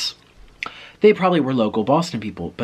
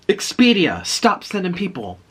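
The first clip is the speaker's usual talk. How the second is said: higher, mock-exasperated phone plea; exasperated clerk; 7 semitones higher, 4 dB louder than usual. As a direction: imitate a clerk fed up with callers. Exasperated clerk answering ringing phone.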